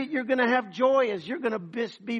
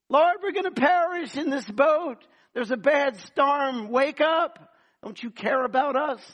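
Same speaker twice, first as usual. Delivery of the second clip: panicked disciples; 4 semitones higher, 3 dB louder than usual. Acted.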